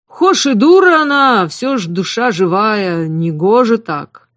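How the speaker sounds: lightly voiced motherly southern cook, sing-song. A narrator's reading. The cook coaxes the hungry girl to eat, in a sing-song southern voice.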